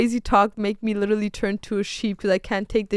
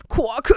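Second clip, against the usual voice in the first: duck quack. Acted. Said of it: "like, a duck".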